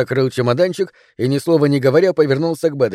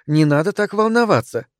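higher-voiced patient wife; gentle, higher-pitched calming; 6 semitones higher than usual. A narrator's reading. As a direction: soothe him patiently. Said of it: "терпеливо сказала Этель".

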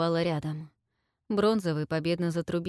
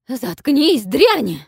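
higher, loud raging shout; furious yell; 7 semitones higher, 12 dB louder, much slower than usual. A narrator's reading. Queen screams at the traitor granddaughter, furious yell. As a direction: roar at the traitor. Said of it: "яростно заорала королева".

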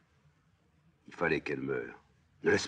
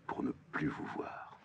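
hushed; 4 semitones lower, 9 dB quieter than usual. Acted. Fin du récit sur le père.

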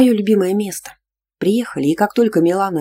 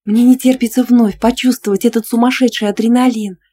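thrilled; 7 semitones higher, 6 dB louder than usual. Acted. Milana thrilled about riding.

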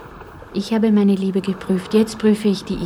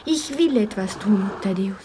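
flüstern. Acted. Marianne flüstert an Thaddäus.

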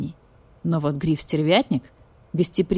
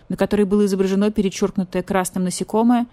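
ordinary delivery, nothing marked

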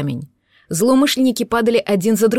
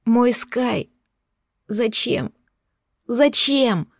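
anguished shout, rising to a wail; breaking into a shout. Acted. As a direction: cry out in grief at the police. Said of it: "сорвалась на крик".

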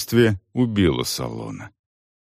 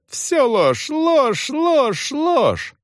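high, rising yelled denials; frantic repeated shout; yelling; much slower than usual. A narrator's reading. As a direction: hammer each word harder. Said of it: "заорал Салон".

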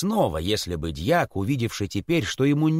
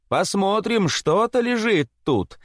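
mild excited call; 8 semitones higher than usual. Acted. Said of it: "закричали все".

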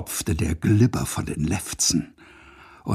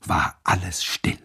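geflüstert; 3 semitones lower than usual. A narrator's reading. Stille im Gespensterhaus.

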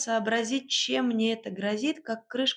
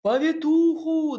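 loud, slow, higher calling out; husband shouts after her for a midwife; 7 semitones higher, 7 dB louder, slower than usual. A narrator's reading. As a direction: call urgently down the hall. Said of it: "донёсся мне вслед голос Игната".

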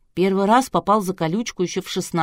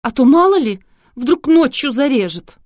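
much higher, much louder, slowed alarm; shrill demand; 8 semitones higher, 9 dB louder than usual. A narrator's reading. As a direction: cry out in mock terror. Scandalous bride demanding separate room.

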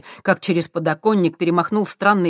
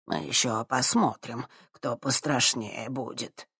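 muttering; 3 semitones lower, 7 dB quieter, slower than usual. Acted. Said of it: "будто успокаивая сам себя".

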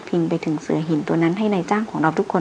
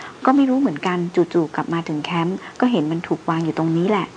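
ordinary delivery

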